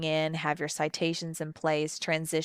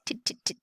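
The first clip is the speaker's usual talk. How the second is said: tapping consonant sounds; 5 dB quieter, faster than usual. Shown as a demonstration. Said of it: "you hear me hitting all of those consonants".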